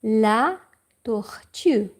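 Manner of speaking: whispered word. Real, not acted. Teacher whispering the French word for turtle. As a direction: whisper tortue without voice.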